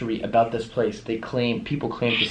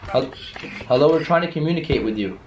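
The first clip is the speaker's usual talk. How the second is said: higher-pitched call to the unseen; 5 semitones higher than usual. Real, not acted. Investigator trying to reach spirits, calling out. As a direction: reach out with a raised voice.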